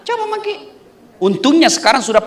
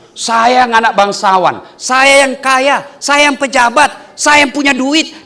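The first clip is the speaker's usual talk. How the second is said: mock arrogant ego; 2 semitones higher, 3 dB louder than usual. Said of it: "Tapi kalau ego masuk".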